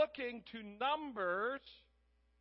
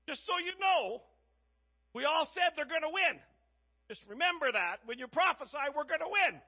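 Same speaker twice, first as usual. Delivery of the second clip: louder and higher, leaning hard on the prophet; pushy demand; 6 semitones higher, 8 dB louder than usual. Retold or imitated. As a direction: insist loudly they'll win. King's man pressures the prophet.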